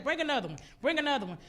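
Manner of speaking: loud, urgent repeated order; insistent retold command; calling out order. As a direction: call out for the next one. Retold calling for another dumpster.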